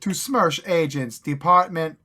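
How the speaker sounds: slow, loud mock Russian accent. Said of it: "how to do a Russian accent".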